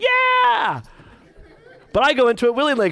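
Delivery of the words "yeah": sudden very high, loud yeah; mock cheer. Preacher imagining cheering after a car crash, shrill whoop. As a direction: whoop like it's a thrill. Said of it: "I wouldn't be like".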